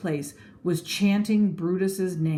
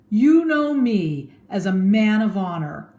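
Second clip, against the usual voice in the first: orator; 3 semitones higher, 6 dB louder than usual. Acted. Brutus addresses the crowd.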